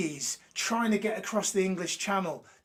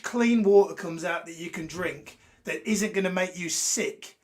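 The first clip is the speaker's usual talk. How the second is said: ranty. Real, not acted. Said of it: "That was ranty".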